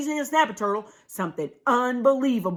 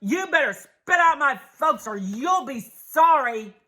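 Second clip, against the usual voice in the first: hollering possum; 4 semitones higher than usual. Acted. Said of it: "Possumandus hollered".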